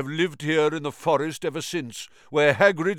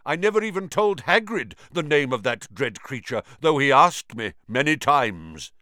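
loud, high fierce spider voice; 5 semitones higher, 6 dB louder than usual. A narrator's reading. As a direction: forbid it fiercely. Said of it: "said Aragog fiercely".

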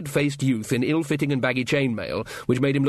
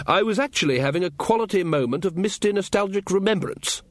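higher-pitched, huffy protest; indignant wizard; 7 semitones higher than usual. Acted. Ridcully to companions who spoiled his nostalgic moment, indignant. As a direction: protest at having a fond memory interrupted.

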